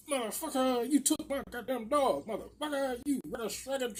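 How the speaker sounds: mock her sputtering cartoon tirade; Yosemite Sam. Neighbour accusing him of taking the dog, cartoonish rant. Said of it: "She sound like Yosemite Sam".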